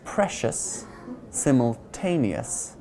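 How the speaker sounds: Precious stressed on pre, simultaneous on ta, before ous; stress before ending. Shown as a demonstration. Teacher showing the ous ending, stress before it. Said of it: "we generally stress the syllable before the ending".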